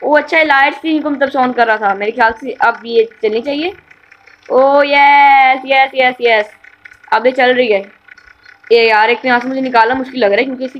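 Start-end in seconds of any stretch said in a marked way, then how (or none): 4.5-6.5 a long, stretched, louder "O yes" of relief; excited drawn-out yes. Real, not acted. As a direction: drag it out like you finally won. Car finally starts moving. (लंबा खिंचा हुआ उत्साहित "ओ yes")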